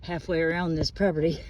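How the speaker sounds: breathless and a bit fast; winded from pushing the lawnmower; out of breath. Real, not acted. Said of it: "sorry I'm out of breath".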